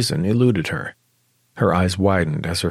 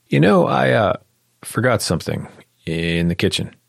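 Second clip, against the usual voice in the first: flustered; 3 semitones higher than usual. Acted. A flustered man excusing himself to the room, high and flustered. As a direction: blurt the excuse in a panicked rush.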